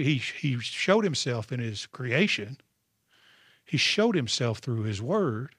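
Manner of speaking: slow, each word weighted; slow down and land each point; slow emphatic recap. Real, not acted.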